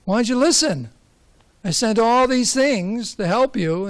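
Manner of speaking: an exasperated God asking why; mild scolding God. Retold or imitated. God scolds the drowned man.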